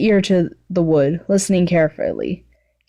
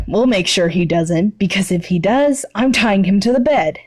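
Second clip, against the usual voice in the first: threat. Acted. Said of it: "Bakugo threatened".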